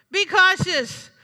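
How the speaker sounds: "Be cautious" said slowly, with "Be" stressed; slow, weighty warning. Shown as a demonstration.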